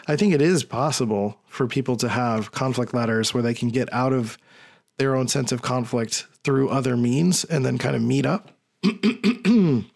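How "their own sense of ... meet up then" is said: hoarse, losing voice; raspy, voice giving out. Real, not acted. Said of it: "Sorry, I'm losing my voice".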